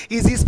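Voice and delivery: ईजीज starting on a long ee; AE read as long ee. Shown as a demonstration. Teacher shows students how AE reads, ईजीज with long ee. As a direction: say ईजीज with AE as one ee sound. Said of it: "ई होगा".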